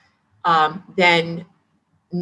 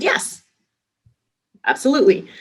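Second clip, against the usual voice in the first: a bright, much higher "Yes", then "absolutely" rising; eager yes; 8 semitones higher than usual. Retold or imitated. Answering the CEO's offer, an eager rising "absolutely". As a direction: jump at the offer, "absolutely" lifting upward. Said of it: "And I said".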